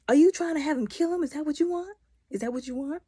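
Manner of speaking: high, loud, fast disbelief; mock outraged shout. Vlogger yelling at Criston on screen, outraged. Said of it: "And I'm just like".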